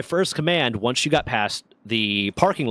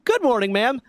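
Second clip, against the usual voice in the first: mocking greeting; 10 semitones higher than usual. Needling the officer again.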